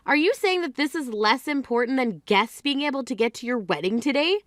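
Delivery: ordinary talk, nothing marked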